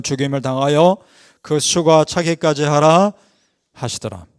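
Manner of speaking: slow, measured Bible reading; scripture reading. Acted. Preacher reads the verse to the congregation, measured scripture reading. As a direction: read the verse out deliberately.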